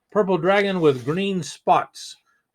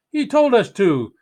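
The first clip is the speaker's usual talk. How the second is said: high, loud blaming cry; knights crying out; 7 semitones higher, 5 dB louder than usual. Acted. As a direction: blurt it out, passing the blame. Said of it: "they cried".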